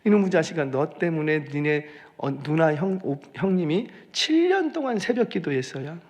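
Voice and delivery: lightly voiced Jeolla dialect scolding; retold loving reproach in Jeolla dialect; imitated tearful scolding aunt. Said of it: "막 펑펑 울면서 그렇게 얘기를".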